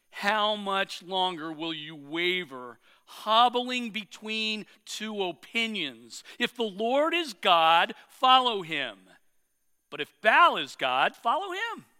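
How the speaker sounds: slow, forceful prophet's challenge; preaching Elijah. Acted. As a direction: call them out like Elijah, slow and hard.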